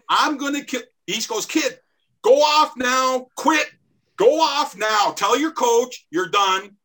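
high, loud taunting chirp; mocking trash talk. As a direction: needle the kid, high-pitched and loud. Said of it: "he never stopped chirping me".

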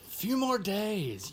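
slow drawn-out stall. Acted. Gus stalling on the repair.

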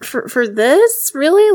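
slow, then a high, loud "Really?"; incredulous. Retold or imitated. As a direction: drag it out in disbelief. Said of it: "to the point where I'm just like".

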